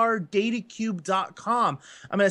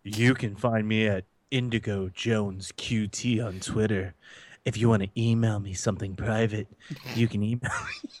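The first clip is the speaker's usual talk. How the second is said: creepy low voice; 11 semitones lower than usual. Pretend. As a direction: purr it like a creep. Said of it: "Oh, it's so creepy".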